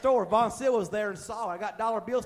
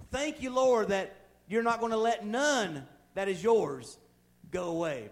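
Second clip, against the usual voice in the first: preached prayer; slower than usual. Acted.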